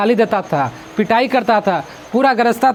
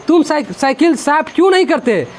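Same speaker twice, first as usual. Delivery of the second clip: mildly stern, higher-pitched retold question; 3 semitones higher than usual. Writer questions Bahadur about the uncleaned bicycle, retold sternly. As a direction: put a retold question firmly, pitch lifted a little. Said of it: "मैंने उससे कड़ाई से पूछा".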